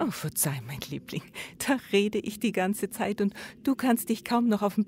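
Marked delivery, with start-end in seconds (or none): 0.0-1.2 soft apology. Acted. Wife softly apologises to tired husband.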